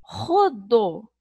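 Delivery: "rodo" very slow, syllable by syllable; slow syllable demo. Shown as a demonstration. Teacher sounding out rodo slowly for children. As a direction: draw out "rodo" in two clear beats. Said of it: "falo duas vezes".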